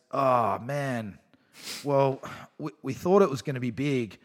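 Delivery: understated, unhurried retelling, easing down at the end; low key. Retold or imitated. Organiser reporting how it's all looking, imitated low key. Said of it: "he said it almost like that in the exact tone of".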